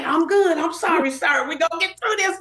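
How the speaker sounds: high-pitched mock panic; flustered reassurance. Nervous hairdresser reassuring Prince after mishap, flustered.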